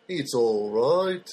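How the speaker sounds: slow, lightly Liverpool-flavoured "It's all right."; a touch of Liverpudlian, stretched out slowly; Liverpudlian accent. Shown as a demonstration. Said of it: "I just love the Liverpudlian accent".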